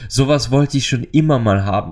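eager mock cry of delight; mock excited outcry. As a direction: burst out like a longing that finally gets its chance. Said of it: "schreit und sagt".

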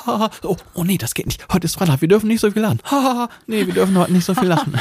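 high giggly voice through laughter; laughing while talking. Retold or imitated. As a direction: cackle the words, high and fast. Mother and grandma cackling, retold.

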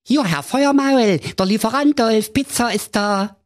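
high, loud delivery guy call. A narrator's reading. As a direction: call out like a pizza man. Prince fakes pizza delivery.

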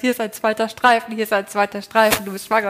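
imitating the husband's overexcited burst over the test; half-acted thrill, repeating the line; excited retold outburst. Husband shouting over a positive pregnancy test, mildly excited retelling. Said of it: "er ist irgendwann ausgerastet".

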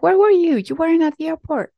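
put-on high, loud demanding voice as the worried boyfriend; upset boyfriend. Boyfriend on the phone demanding where she was, loud and high. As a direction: imitate him barking where were you. Boyfriend angry about missed flight.

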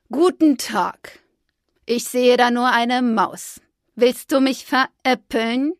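slow, distrustful bird voice; suspicious magpie. Acted. The magpie doubts Fridolin's friends, slow suspicious magpie. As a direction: eye the stranger with suspicion.

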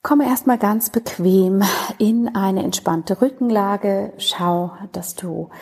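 lightly held yoga-teacher meditation tone; guided meditation. Acted. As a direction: ease the listener into relaxation, unhurried.

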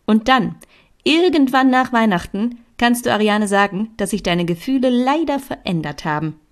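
a hint of a teacher laying out the plan; schoolmistress. Lea lectures Katinka on the gift swap, like a schoolmistress.

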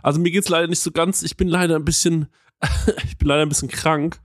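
talking with swollen tonsils. Real, not acted. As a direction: sore throat, careful swallowing speech. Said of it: "ich hab dicke Mandeln".

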